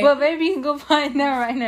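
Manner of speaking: speaking through laughter; teasing through giggles; laughing. Real, not acted.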